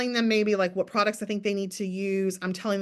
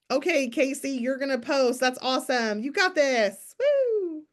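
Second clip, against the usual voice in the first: higher, bubbly hype with a squealed woo; over-the-top cheerleading; 5 semitones higher than usual. Retold or imitated. Upline cheering on Casey before her first post, hyped. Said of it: "doing La La Land".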